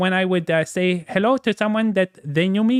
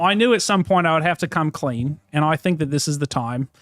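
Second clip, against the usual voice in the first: put-on Australian accent; 3 semitones lower than usual. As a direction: speak in a faked Australian accent. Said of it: "continued the Australian accent for two hours".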